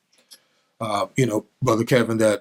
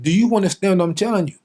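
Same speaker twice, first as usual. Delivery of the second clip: higher, insistent question; father's demand; 6 semitones higher, faster than usual. Retold or imitated. Father demanding a response from his son, insistent. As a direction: press the boy for an answer. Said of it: "He said".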